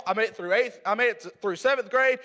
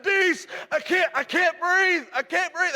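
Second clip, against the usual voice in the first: higher, strained cry that he can't breathe; breathless plea; 6 semitones higher, slower than usual. Retold or imitated. Winded player gasping to coach for help, strained plea. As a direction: plead for air, winded. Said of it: "I couldn't breathe".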